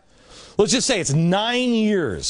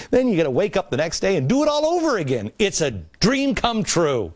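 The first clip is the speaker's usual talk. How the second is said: mock cheerful; 2 semitones higher than usual. Touring factory-dorm life, mock cheerful sales pitch. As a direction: sell the drudgery as luxury.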